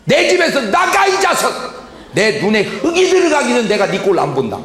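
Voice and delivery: bang the floor and bellow him out; old man banishing his son in rage, shouting; angry grandfather. Acted. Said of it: "방바닥을 빵 치면서".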